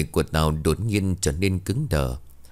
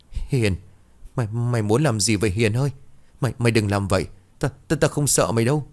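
higher, stuttering in fear; stammering; 4 semitones higher, faster than usual. Acted. Tao stammers at the open grave, higher and scared. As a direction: stumble over the words, terrified. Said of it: "lắp bắp".

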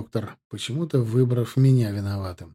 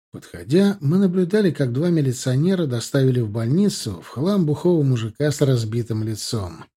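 usual speaking voice

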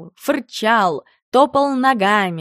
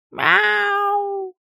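high, yowling meow; cat yowling for attention; 12 semitones higher than usual. A narrator's reading. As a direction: yowl like an upset cat. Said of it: "раздался кошачий вопль".

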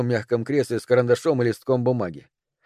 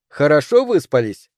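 a loud host voice over a speaker; disembodied voice; 3 semitones higher, 4 dB louder than usual. Acted. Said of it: "голос Феникса".

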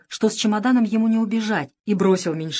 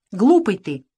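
sighing; 3 semitones higher, 5 dB louder than usual. A narrator's reading. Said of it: "вздохнул Крыс".

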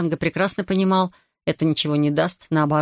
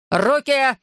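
shrieking command; 7 semitones higher than usual. Acted. Corporal shrieking at Artur, shrieking command. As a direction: screech the order at him. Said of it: "завизжал капрал".

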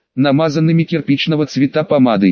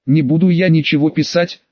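ordinary delivery, nothing marked

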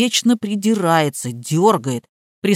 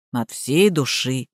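lower, quieter blank echo; dull parroting; 8 semitones lower, 4 dB quieter, slower than usual. A narrator's reading. Gardener echoes the vow low and soft. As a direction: mechanical repeat, slow.

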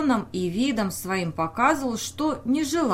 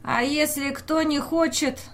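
insistent; 7 semitones higher than usual. Acted. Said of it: "настойчиво повторила тётка Маня".

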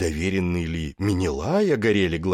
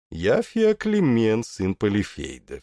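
hypnotic spell; 3 semitones higher than usual. Acted. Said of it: "Течёт сладкий яд". (медленно, завораживающе)

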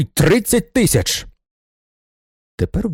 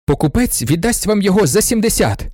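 bursting out; 7 semitones higher, 3 dB louder than usual. A narrator's reading. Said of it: "вибухнув він".

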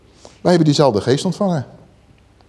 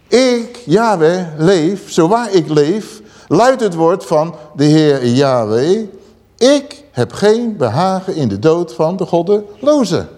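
raised, slow declaiming of God's oath; solemn proclamation; slower than usual. Acted. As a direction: announce it like the voice of God. (plechtig verkondigd als de stem van God)

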